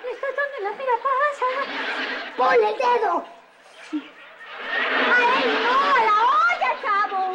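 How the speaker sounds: frantic, panicked yells; frantic shouting. Acted. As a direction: shout in a hurry. La leche se sale, grita. (gritos desesperados)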